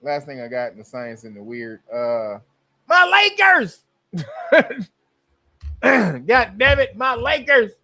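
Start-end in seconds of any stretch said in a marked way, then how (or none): 2.9-7.7 high, loud wail over his team; anguished fan shout. Real, not acted. Fan to chat about the Lakers sale, wailing. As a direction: cry out as if your team was stolen.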